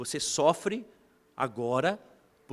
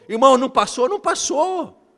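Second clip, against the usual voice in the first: emphatic repeat; 8 semitones higher, 8 dB louder than usual. Acted. Preacher repeats failure emphatically.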